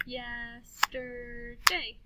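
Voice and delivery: YESTERDAY very slowly, yes-ter-day; stretched-out "Yes-ter-day"; clapped syllables. Shown as a demonstration. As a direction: chant "Yesterday" in three long beats. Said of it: "then we'll clap the syllables".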